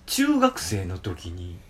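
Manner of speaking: slow, drawn-out ghost-story delivery; imitated ghost-story telling. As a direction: mimic a contestant slowly starting a scary tale. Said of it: "怪談グランプリの。". (怪談風にゆっくり語る物まね)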